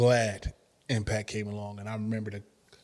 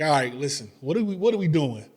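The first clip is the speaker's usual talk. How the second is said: higher, louder eager push; eager question; 4 semitones higher, 6 dB louder than usual. Retold or imitated. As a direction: get straight to it, keen. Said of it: "I was like".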